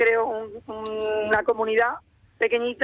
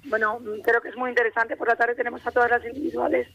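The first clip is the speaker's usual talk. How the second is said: hoarse voice. Real, not acted. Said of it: "perdonad que estoy afónica".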